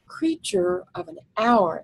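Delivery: creature slowed and stressed; stressed phrase. Shown as a demonstration. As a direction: lean on creature. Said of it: "emphasizing the fact".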